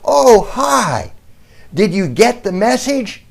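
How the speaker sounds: high, loud call across a store; called out greeting. Retold or imitated. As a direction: cheerfully yell a greeting across the room. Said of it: "she yelled out to us".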